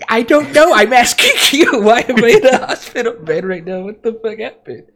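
high, loud, frantic retelling; frantic outburst. Retold or imitated. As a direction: act out bewildered panic, voice jumping way up. Acted panicked reply from hospital bed.

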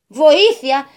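loud desperate call; cry for help. A narrator's reading. Trapped old man calling out for help. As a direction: shout for help from inside.

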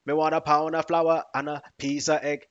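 a hint of a put-on voice; mate's odd request. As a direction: quote him up high with a push. Retelling what a mate says.

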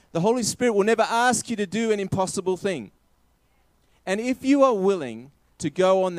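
lifted, forceful preacher's delivery; emphatic preaching. Real, not acted. Preacher assures believers they are empowered to obey, emphatic preaching. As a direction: drive each promise home to the congregation.

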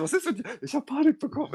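high, laughing through the words. Retold or imitated. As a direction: giggle through the question. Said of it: "Und ich so".

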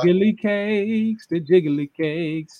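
slow, savoring jiggly cakes; drawn-out relish. Real, not acted. Hyping the audience up, slow and relishing. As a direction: stretch out the words, relishing them. Building up the hype.

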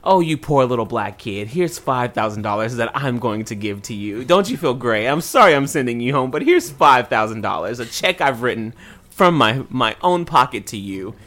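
exaggerated pity for someone beneath you; mock condescension. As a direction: imitate patronizing charity with emphatic stresses. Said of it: "such a condescending way where it was like".

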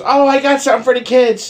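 imitated old neighbor. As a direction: coo it like an elderly neighbor. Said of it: "she goes".

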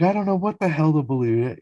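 Jared freaking out. Retold or imitated. Recapping a character yelling at George, mock freak-out. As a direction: retell it as an exasperated outburst. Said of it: "He's yelling and freaking out at George".

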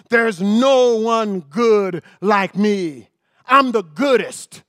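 slow, drawn-out boast; hint of a booming divine voice; lightly voiced proud God. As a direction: savor each word like a proud boast. Voicing God's boast.

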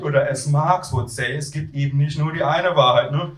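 lightly imitated student pontificating; echoing Tim. Queasy narrator echoing flatmate's Marx line, mild imitation. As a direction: hand the slogan back with a touch of his voice.

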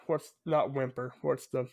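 ordinary talk

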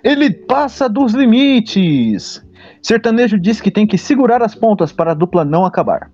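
news anchor reading the headline. Acted. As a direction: read it like a TV news item. Reads out a news story.

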